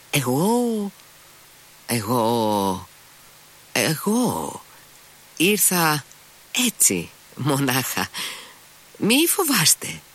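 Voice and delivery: stammering, voice jumping high on each word; halting near-shout. A narrator's reading. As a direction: Mitya stumbling over every word to the gentlemen, halting near-shout. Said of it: "άρχισε να λέει δυνατά, σχεδόν φωνάζοντας, μα και κομπιάζοντας".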